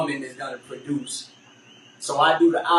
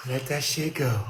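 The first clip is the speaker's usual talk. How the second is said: calming exhale cue; 4 semitones lower, 4 dB quieter than usual. Shown as a demonstration. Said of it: "Everybody breathe".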